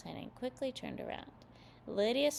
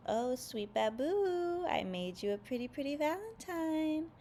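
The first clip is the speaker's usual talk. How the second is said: Sally calling out; 7 semitones higher, 3 dB louder than usual. A narrator's reading.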